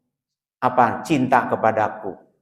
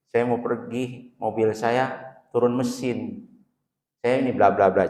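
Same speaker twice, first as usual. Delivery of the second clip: much softer, lower plea; soft pleading prayer; 4 semitones lower, 8 dB quieter than usual. Retold or imitated. Worshipper asks God for a ticket home, a soft murmured plea.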